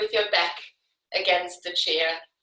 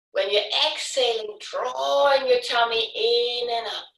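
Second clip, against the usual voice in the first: guided breathing cue. Real, not acted. Paces the students' breathing.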